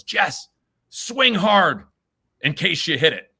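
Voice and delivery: high, loud retold shout from the stands; dad's yell. Dad yells encouragement to nervous son at bat, loud mock shout. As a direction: call it out like a dad cheering at T-ball. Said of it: "And my dad yells".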